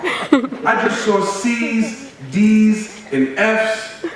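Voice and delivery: high, slow, laughing disbelief; staring at the grades in fake shock; high disbelieving laugh; mock shock.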